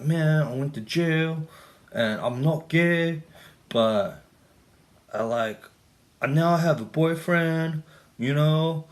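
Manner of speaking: slow, high Hispanic accent put on for the bar buddy. Retelling a bar chat, he imitates a new friend in a Hispanic accent. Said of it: "my, um, Hispanic accent".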